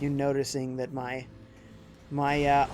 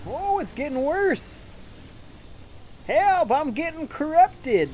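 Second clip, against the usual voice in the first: corrupted Metroid Prime; 13 semitones higher, slower than usual. Acted. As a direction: wail like a monster being corrupted from inside. Player voices Metroid Prime being corrupted.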